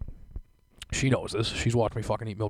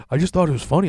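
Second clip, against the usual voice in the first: higher, louder mock girlfriend; imitating girlfriend; 6 semitones higher, 8 dB louder, faster than usual. Girlfriend defending the goofy gadget, lightly imitated. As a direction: play her innocent reply. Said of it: "She's like".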